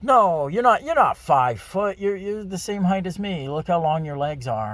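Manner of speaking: high, emphatic mock-incredulous protest; playful disbelief. Teasing his date about her claimed height, playfully incredulous. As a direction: tease her with exaggerated, high-pitched disbelief.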